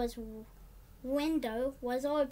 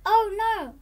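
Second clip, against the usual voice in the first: high, loud gasp of worry; sudden alarm; 8 semitones higher, 11 dB louder than usual. Acted. Willy seeing the baby reach for cans, alarmed. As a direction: cry out as the cans wobble.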